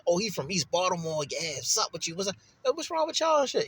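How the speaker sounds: mock confused outsider.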